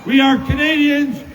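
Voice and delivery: rising rally oratory, punching each line; rally a cheering crowd; roaring rallying speech. Real, not acted.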